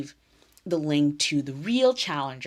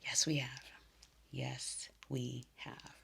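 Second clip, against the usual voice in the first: choked-up reply; 2 semitones lower, 12 dB quieter, slower than usual. Retold or imitated. Emotional reply, voice fading.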